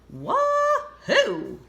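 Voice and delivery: high, loud whoop of joy; high excited wahoo; joyful cheer. Acted. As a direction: whoop like a thrilled kid. Duck's joy on tractor.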